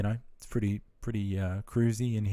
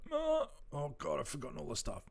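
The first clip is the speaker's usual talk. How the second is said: mock dismay; 6 semitones higher, 6 dB quieter than usual. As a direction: play up the shock of having forgotten everything. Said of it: "I was like".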